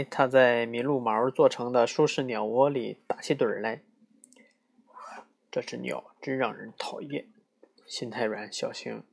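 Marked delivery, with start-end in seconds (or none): 5.5-7.3 softer grumbling mutter; muttered complaint. Acted. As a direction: complain under the breath. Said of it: "小声咕哝抱怨". (更轻的小声嘟囔)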